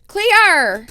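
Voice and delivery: loud, high mock Australian Clear!; comic Australian accent; Australian accent demo. Shown as a demonstration. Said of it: "Just say this".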